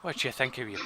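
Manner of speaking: Scottish attempt slipping into Irish; Irish-sounding accent. Game master failing at Scottish, Irish-sounding accent. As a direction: aim for Scottish, land on Irish. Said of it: "No, that's Irish".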